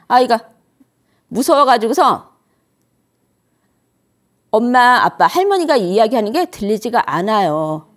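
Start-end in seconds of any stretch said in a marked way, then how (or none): none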